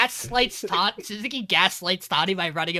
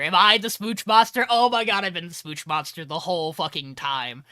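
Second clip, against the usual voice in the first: mock panic. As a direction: act out a spiralling freak-out. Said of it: "as she's panicking".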